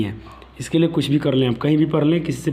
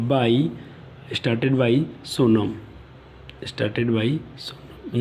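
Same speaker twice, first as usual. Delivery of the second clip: slow dictation; 4 semitones lower, 5 dB quieter, much slower than usual. Shown as a demonstration. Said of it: "dictating the answer twice".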